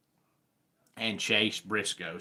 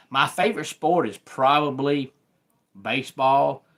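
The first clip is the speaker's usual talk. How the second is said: higher and louder, bursting with the answer; eager reveal; 4 semitones higher, 5 dB louder than usual. Real, not acted. Host telling his viewers his favorite sport, eager and loud. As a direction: blurt out the favorite with enthusiasm.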